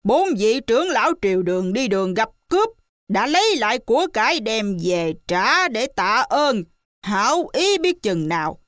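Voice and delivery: monkey king upbraiding the lying widow; scolding shout. Acted. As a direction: berate her hotly. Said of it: "Hành giả quát".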